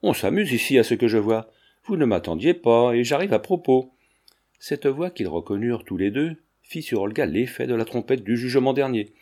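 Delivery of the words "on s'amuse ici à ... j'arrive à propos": shouted. Acted. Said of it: "une voix leur cria".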